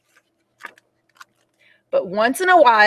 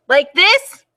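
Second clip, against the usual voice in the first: put-on 1 child voice; 7 semitones higher, 5 dB louder than usual. Ruby tests her volume.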